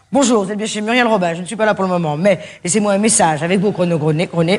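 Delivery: a plain, polite recorded greeting; formal voicemail read; classic voicemail greeting. Shown as a demonstration. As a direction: read it neat and proper. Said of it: "je vais faire le classique, le traditionnel".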